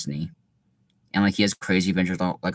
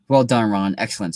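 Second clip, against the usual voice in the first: pompous; 3 dB louder than usual. Acted.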